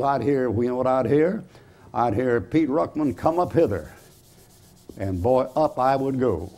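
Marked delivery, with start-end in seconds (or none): 2.4-3.9 heavenly call. Pretend. God calling his name.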